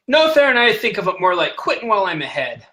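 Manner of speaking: a wry laughing comeback; amused captain. Acted. Captain answers Theron mockingly.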